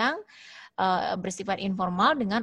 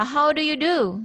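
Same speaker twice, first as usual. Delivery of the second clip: "how do you do?" asked high in the voice; high-pitched model question, "how do you do?"; question intonation; 6 semitones higher, 4 dB louder than usual. Shown as a demonstration. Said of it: "Jadi naik ke intonasinya".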